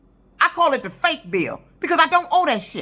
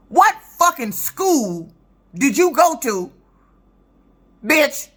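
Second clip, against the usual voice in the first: slow furious jab; 3 semitones higher, slower than usual. Real, not acted. Furious rant at the clerk.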